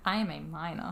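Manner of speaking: low, understated protest; mock protest. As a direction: state it as a deadpan objection. Character's protest, quoted plainly.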